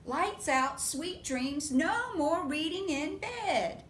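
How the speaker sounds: loud slow firm mother; firm mama. Acted. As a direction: lay down the rule like a firm mom. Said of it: "Can you remember what Mama said?".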